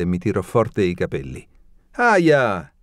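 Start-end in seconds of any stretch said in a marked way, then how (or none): 1.9-2.7 sharp, louder, higher yelp; quick pained ouch; cry of pain. A narrator's reading. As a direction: yelp as your hair is yanked.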